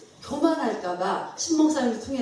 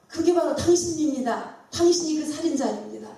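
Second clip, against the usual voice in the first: higher-pitched, pointed retold accusation; accusing; 5 semitones higher than usual. Prophet Nathan confronting King David, accusing.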